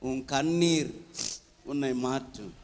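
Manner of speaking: "அழாதே" dropped low and very soft; hushed comfort. Acted. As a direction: breathe "அழாதே" gently, almost under the breath. Tender close of God's words.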